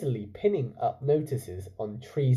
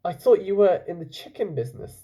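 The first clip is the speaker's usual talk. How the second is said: Chulak; 5 semitones higher, 3 dB louder than usual. Acted. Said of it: "said Chulak".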